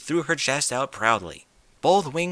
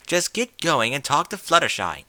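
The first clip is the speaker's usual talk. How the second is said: exasperated; 4 semitones higher, 5 dB louder than usual. Acted. Rarity exasperated.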